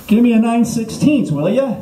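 mildly annoyed demand. Acted. Stranded driver asking for a wrench, mildly annoyed demand. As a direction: demand it with a bit of attitude. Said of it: "you're not real happy".

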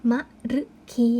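"มะรึคี" in three separate syllables, short ma and rue, long khi; syllable-by-syllable reading. Shown as a demonstration. Teacher reading the word for pupils, careful pronunciation. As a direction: sound out "มะรึคี" evenly. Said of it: "คำนี้จึงอ่านว่า".

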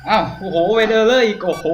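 high, loud startled yelp; real shock, voice jumping high; startled outcry. Real, not acted. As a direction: cry out at the sudden scare. Jump scare in horror game.

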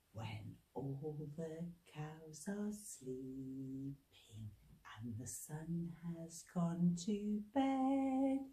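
slow, soft bedtime voice; sleepy hush. Acted. Leader softly setting up the scarecrow surprise. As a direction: lull them before the jump.

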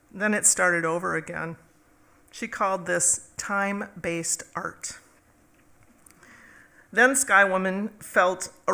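measured storytelling recital, pausing between phrases; poem reading. Acted. Poet shares new Sky Woman poem with audience, measured recital. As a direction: tell it as a spoken poem, each stanza launched firmly. Reads own poem aloud.

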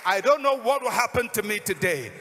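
loud, high declaration slowing to emphatic words; impassioned preacher voicing a determined beggar; full-force preaching. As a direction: proclaim a vow to the congregation.

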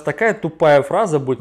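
muffled behind palm; speaking into hand; hand over mouth. Real, not acted. Seen 0: Hand covers lower face and mouth from 0.4 to 1.6 s.

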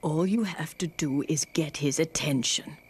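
coaxing whisper. Acted. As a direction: coax her in a hush. Naomi coaxes Ruth quietly.

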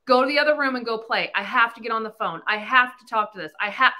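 fast, hurried go to the other room; rushed dismissal. Retold or imitated. Mother pushing kids away to get on the phone, rushed. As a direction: hurry them out of the way. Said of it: "heard me say that".

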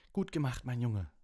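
high, loud cheering praise; Wood calling out. A narrator's reading. Wood congratulating Harry after the catch, jubilant shout. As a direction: call it out, pitched well up. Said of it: "rief Wood immer wieder".

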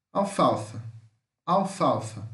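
"Alfalfa" with its L kept, stressed in the middle, pitch falling; pronunciation demo. Shown as a demonstration. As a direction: say "Alfalfa" as a careful English model. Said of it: "a pronúncia que vai ficar com esse L".

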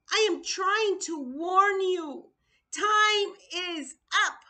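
loud, tearful, rising to a cry on "Time"; crying warning. Real, not acted. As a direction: plead through real tears, urgently.

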